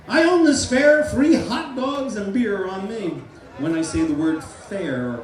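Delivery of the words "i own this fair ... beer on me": slow bellow, high on the first line; proud shout. Shown as a demonstration. Hypnotist repeats the fair boast for the volunteer, loud and slow. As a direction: boom the free-beer offer. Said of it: "yell it as loud as you can".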